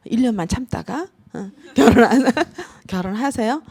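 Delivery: giggling through the words; laughing. Retold or imitated. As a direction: laugh it out half-jokingly. 웃으며 말함. (웃음 섞인 반농담)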